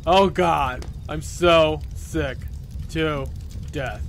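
slow, halting, fed-up lament; drunken misery. Acted. Drunk girl laments her life, slow miserable delivery. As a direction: drag it out word by word.

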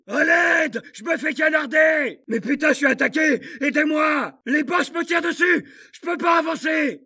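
yelling under heavy fire; shout, desperate and pinned down; panicked shouting. Acted. Soldat pris sous le feu. (cris de panique)

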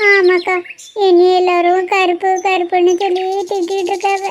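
put-on a girl sad about being called dark; upset young girl. Crying girl tells her sorrow.

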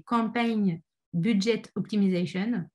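English term in a real French accent. Real, not acted. Trainer reading out an ad budget term, French-accented English. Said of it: "J'ai un accent terrible en anglais".

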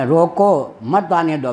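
रोको set apart, then मत आने दो joined as one phrase; pause after रोको. Retold or imitated. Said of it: "तात्पर्य मेरा क्या था रोकने में".

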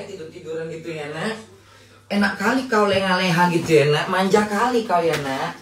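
high, cooing chatter to a lazy cat; sweet teasing talk to a pampered cat. Real, not acted. Cooing to her pet cat.

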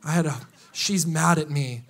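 mope like someone wallowing on the couch; sulking self-pity. Retold or imitated. A sulking believer moaning to God, low and mopey. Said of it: "and you're just like".

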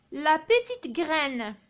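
slow, measured model reading; poem read aloud. Shown as a demonstration. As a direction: read it out slowly for pupils to follow. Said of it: "نقراو لو بويم مع بعضنا".

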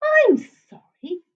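high, slow polite monster; drawn-out high apology; un-monstrous monster. A narrator's reading. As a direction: apologise sweetly, not at all monstrous. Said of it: "voice that was not at all monstrous".

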